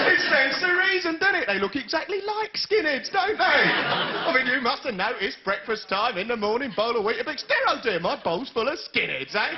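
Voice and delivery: mock earnest. Mocking the advert logic.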